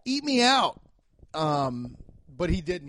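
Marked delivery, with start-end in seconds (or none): 0.1-0.8 high, loud yell from the crowd; mock heckler yell. A heckler in the crowd, mock yell. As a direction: bark it like a rowdy heckler. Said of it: "some guy in the crowd yelled".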